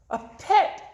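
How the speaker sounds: high, loud joyful cry; excited squeal. Acted. Goldfish Gilbert cries out on finding a pet. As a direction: burst out with delight. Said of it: "Gilbert glubbed".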